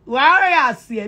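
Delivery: slow drawn signature call. Real, not acted. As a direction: stretch the rallying call.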